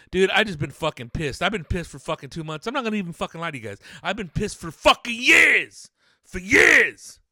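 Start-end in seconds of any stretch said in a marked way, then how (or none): 4.0-7.2 loud, high burst on the years; exasperated shout. Real, not acted. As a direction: blow up, yelling out how long it's been. Ranting about being pissed for years.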